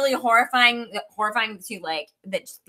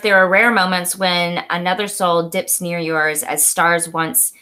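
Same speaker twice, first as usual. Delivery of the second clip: measured, slightly lower literary read; reading aloud; 4 semitones lower, slower than usual. Acted. Reading a favorite book quote to co-host, measured read-aloud. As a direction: read the passage out deliberately.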